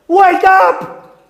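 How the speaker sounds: high forceful shout, pushing harder; "Wake up!" shouted harder. Acted. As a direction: slam the "Wake up!" home. Repeated call, higher and louder.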